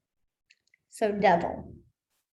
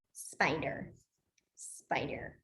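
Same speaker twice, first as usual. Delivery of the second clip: low hushed creepy spider; creepy whisper; 7 semitones lower, 11 dB quieter, much slower than usual. Shown as a demonstration. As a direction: whisper it like something crawling. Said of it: "wiggle your fingers".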